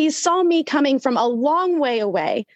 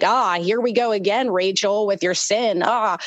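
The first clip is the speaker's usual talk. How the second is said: mock exasperated scolding, somewhat lower; weary here-we-go-again tone; annoyed sigh; 4 semitones lower than usual. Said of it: "be annoyed".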